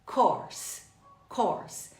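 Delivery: "course" with open aw as in or; isolated falling "course" for learners to copy; repeat-after-me model. Shown as a demonstration. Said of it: "Repita comigo mais uma vez".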